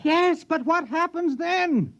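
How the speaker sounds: very high and slow, strained with alarm; panicked question. Acted. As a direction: dread creeping in as he asks. Scientist alarmed at world takeover.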